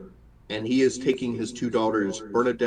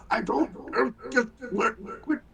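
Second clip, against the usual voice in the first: put-on exasperated teen; 13 semitones higher, faster than usual. Teen cutting off parent.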